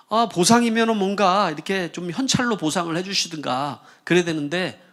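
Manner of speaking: usual speaking voice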